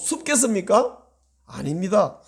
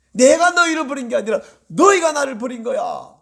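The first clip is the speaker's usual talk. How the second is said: raised, emphatic rebuttal in God's role; acted reproach with a higher pitch; God's retort; 4 semitones higher, 3 dB louder than usual. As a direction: throw the blame straight back. Acts out God's retort to the people.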